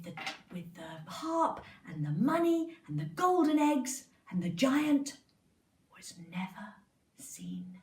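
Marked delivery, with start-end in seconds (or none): 6.0-7.8 lower, softer fading whisper; storyteller closes the tale to the children, hushed; hushed ending. A narrator's reading. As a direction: let the story die away in a hush.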